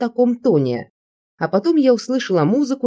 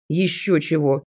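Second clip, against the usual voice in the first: a short laughing scoff; scoffing chuckle; 3 semitones lower than usual. A narrator's reading. Andrey brushes off her plea to leave, scoffing chuckle. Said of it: "хохотнул он".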